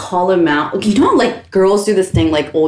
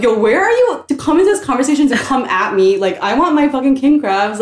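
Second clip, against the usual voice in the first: higher, heated retelling of a confrontation; mildly mock-indignant challenge, pitch raised; retold pissed-off rant; 5 semitones higher than usual. Sister retelling how she confronted her brother, pissed-off rant. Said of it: "I was getting pissed".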